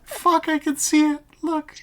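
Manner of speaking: high-pitched, loud laughing outburst; cracked up, voice shooting way up. Real, not acted. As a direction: blurt it out through helpless laughter. Cracking up at the picture.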